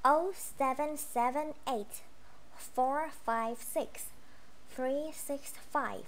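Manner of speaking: slow, deliberate phone number digits in groups. Shown as a demonstration. Teacher models a phone number for students, slow and clear. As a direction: read each digit slowly for the class. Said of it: "đây là cái cách đọc của, à, số điện thoại".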